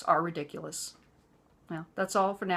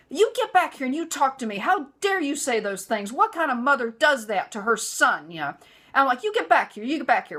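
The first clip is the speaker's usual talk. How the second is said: angry; 5 semitones higher, 4 dB louder than usual. Retold or imitated. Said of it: "I'm on the warpath".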